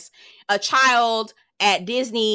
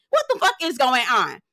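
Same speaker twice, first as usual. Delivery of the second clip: mock scolding; 3 semitones higher than usual. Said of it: "I looked at Shannon and was like".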